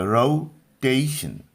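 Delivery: रोटेशन slowly as rou, then TAY-shun; रोटेशन with gliding first vowel and sh ending; joining the syllables. Shown as a demonstration. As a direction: say रोटेशन in two deliberate parts, middle stressed. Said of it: "तीनों को अगर हम लोग".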